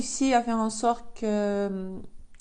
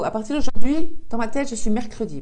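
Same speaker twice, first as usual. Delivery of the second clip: excited; 9 dB louder than usual. Real, not acted. Triumphant declaration.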